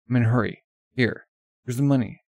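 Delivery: loud and pressing; urgent insistence. Acted. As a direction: shove the money at him. Urgent, pushing money.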